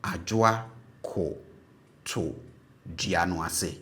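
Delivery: "Adwoa koto" drawn out slowly, syllable by syllable; slow model phrase. Shown as a demonstration. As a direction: spell it out slowly in sound. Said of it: "sɛ yɛreka sɛ yi".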